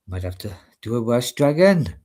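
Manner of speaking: light attempt at a Welsh accent; a touch of Welsh lilt. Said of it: "you can do the Welsh accent".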